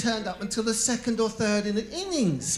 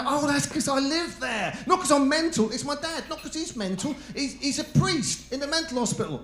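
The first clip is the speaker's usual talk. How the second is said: higher, rushed nervous explaining; flustered young self; 6 semitones higher than usual. Retold or imitated. Young man nervously explaining to a date, higher voice. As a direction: babble your excuse higher, a little panicked.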